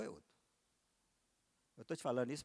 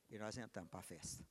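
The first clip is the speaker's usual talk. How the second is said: soft hushed whisper; 4 semitones lower, 7 dB quieter than usual. Acted. Preacher whispering the entry into the feast, hushed whisper. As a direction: breathe the words in a whisper. Whispered, then repeated aloud.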